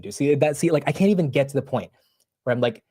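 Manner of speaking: ordinary talk, nothing marked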